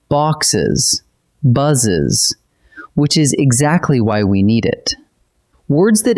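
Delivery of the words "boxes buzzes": "Boxes, buzzes", each ending sounded as a whole syllable; extra spoken syllable. Shown as a demonstration. Teacher demonstrating plural endings, "Boxes, buzzes" each in two separate syllables. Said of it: "extra E adds a whole spoken syllable".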